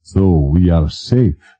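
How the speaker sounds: slow, mock-serious question; mock seriousness. King asking the president about safety, slow mock-serious. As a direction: pretend gravity, lightly voiced. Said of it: "In mock seriousness".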